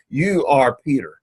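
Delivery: "you" set apart with deliberate emphasis; stress on you. Shown as a demonstration. Teacher contrasting Peter with Christ's title, stress on you. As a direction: lean on "you", falling through "are Peter". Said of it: "again, that's the emphasis".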